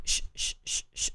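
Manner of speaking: gentle shh to quiet an infant; shushing a baby. Shown as a demonstration. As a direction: hush a crying baby. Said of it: "¿Qué hacemos con un bebé cuando empieza a llorar?".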